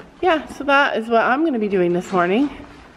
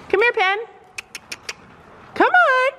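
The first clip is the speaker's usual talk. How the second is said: high soothing pony voice; 11 semitones higher than usual. Real, not acted. Owner calming pony near the stick, high coaxing praise. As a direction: reassure a frightened animal up high.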